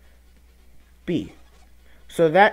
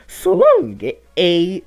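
much higher, louder Italian-style Mario cry; Mario's Italian accent; 3 semitones higher, 5 dB louder, much slower than usual. Retold or imitated. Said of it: "But with Mario's accent".

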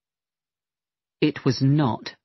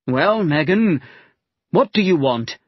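cross; 2 semitones higher, 4 dB louder than usual. Acted. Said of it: "said rather crossly".

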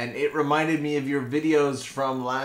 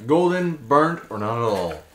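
chewing gum; 3 dB louder than usual. Real, not acted. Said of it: "It was very hard to do a live stream while chewing gum".

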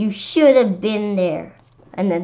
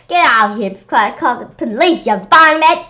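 put-on angry old lady; 4 semitones higher, 8 dB louder than usual. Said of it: "Tell Miss Young".

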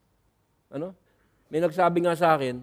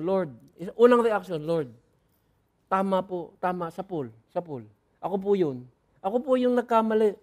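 repentant confession. Acted. Repentant believer confessing to God.

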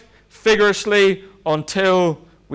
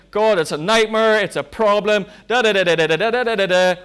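frantic prayer; 2 semitones higher than usual. Retold or imitated.

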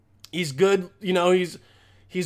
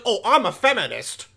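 imitating a self-declared feminist guy; mocked male feminist; 2 semitones higher than usual. Guy declaring himself a feminist, mocking imitation. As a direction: mockingly announce it, putting on a voice. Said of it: "when a guy's like".

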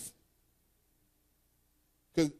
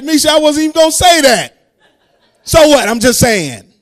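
loud, high laughing denial; laughing protest; 8 semitones higher, 13 dB louder than usual. Retold or imitated. Preacher laughing as he tells the church about Missy. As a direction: laugh while protesting your innocence.

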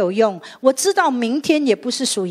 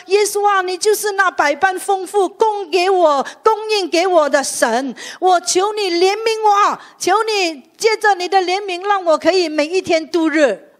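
sample prayer; 7 semitones higher than usual. Shown as a demonstration. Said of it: "求耶稣说".

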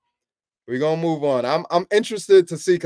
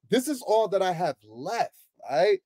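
smooth salesman pitch; 2 semitones lower, 3 dB quieter than usual. Pretend. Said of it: "Yo, the sales pitch".

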